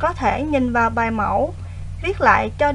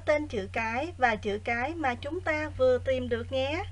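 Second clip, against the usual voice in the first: quiet, even lesson reading; soft teacher voice; 11 dB quieter than usual. Acted. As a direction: read the exercise softly and evenly. Quiet recorded exercise reading.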